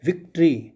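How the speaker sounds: विक्ट्री with a close-lipped V; V sound. Shown as a demonstration. Teacher gives a V example, विक्ट्री with lips close. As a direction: start विक्ट्री with lips drawn slightly close. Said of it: "वी जब बोलते हैं आप तो आपके दोनों होंठ".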